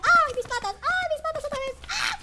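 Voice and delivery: high yelps of pain from falling; screaming while falling. Real, not acted. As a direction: yell out as you drop and land hard. Falls and hurts his legs.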